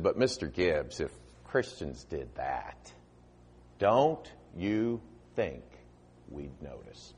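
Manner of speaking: slow, soft, sorrowful question; kinda sad. Retold or imitated. Judge asking the preacher, kinda sad and slow. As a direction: let the judge's words sink sadly. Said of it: "kinda sad".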